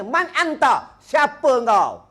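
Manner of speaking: high, slow solemn "Man anta?"; angel questioning. Retold or imitated. The angel questioning the dead in the grave, high and solemn. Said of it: "dia tanya".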